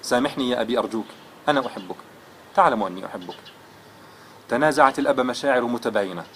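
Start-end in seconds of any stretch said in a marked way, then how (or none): 0.0-3.4 tearful pleading. Acted. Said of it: "ودموعه منهمرة".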